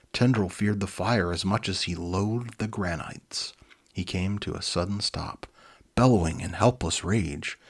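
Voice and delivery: lively read-aloud storybook voice; animated storyteller; story narration. A narrator's reading. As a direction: read it like a children's book. Reads children's book aloud.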